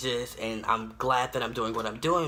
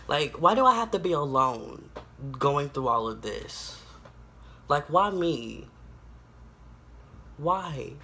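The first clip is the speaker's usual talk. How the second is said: getting emotional; 2 semitones higher than usual. Real, not acted. Speaker asking God why me, emotional plea. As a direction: plead it as emotion rises. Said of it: "I'm starting to get emotional".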